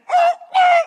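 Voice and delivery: very high, loud comic shrieks; panicked screams. Retold or imitated. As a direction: shriek twice in mock terror. Acts out screaming in turbulence.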